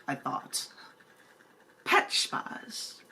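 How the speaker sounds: soft whispered aside. Pretend. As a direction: hush it to yourself. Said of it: "try to do this in another voice".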